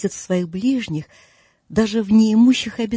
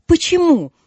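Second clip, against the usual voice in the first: high, loud mocking echo; a loud incredulous why; 9 semitones higher, 6 dB louder than usual. A narrator's reading. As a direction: throw the word back, high and loud. Scrooge echoes the question.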